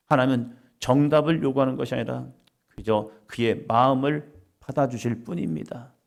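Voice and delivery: ordinary talk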